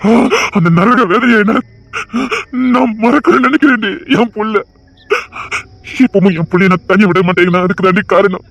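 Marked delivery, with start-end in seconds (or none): 2.7-4.6 choked up. Acted. Father recalls losing daughter.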